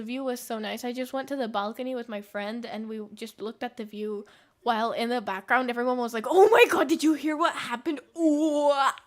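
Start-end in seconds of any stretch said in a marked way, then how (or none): 6.3-8.9 much higher and louder breathless gossip; gossipy excitement. Retold or imitated. Imitating the crowd at dinner spreading drama, shrill gossip. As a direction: gasp it like juicy news just broke.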